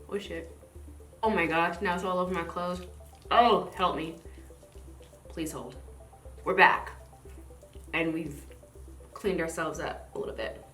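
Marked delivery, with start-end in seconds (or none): none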